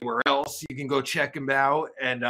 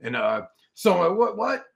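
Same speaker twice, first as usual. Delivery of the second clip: ordinary talk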